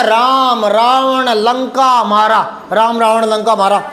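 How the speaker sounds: slow, word by word, like a jumbled list; halting demo of a sentence without its joining words; slow broken word list. Shown as a demonstration. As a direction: drop the connecting words and plod through. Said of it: "कारक निकाल दें तो क्या हो जाएगा".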